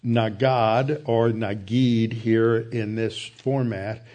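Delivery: nagad or nagid said slowly, each syllable clear; Hebrew word spoken slowly. Shown as a demonstration. Teacher giving his class the Hebrew word, slow and careful. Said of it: "the Hebrew word".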